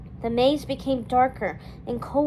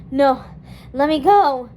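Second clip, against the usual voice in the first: screamed; 8 dB louder than usual. A narrator's reading. Dawn caught by rose vines, loud cry. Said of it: "she screamed".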